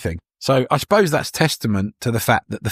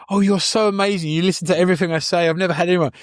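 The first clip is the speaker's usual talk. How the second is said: lightly voiced gushing woman, higher pitched; higher, quick-flowing adoring voice, lightly put on; Jennifer Coolidge's character; 5 semitones higher, faster than usual. Retelling her chat with the villager, lightly imitated gushing. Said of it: "with Jennifer Coolidge's character".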